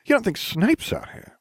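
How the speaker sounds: high-pitched alarmed question; yelping. A narrator's reading. Ron fears Snape is in the forest, yelping. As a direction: squeak it out in alarm. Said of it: "Ron yelped".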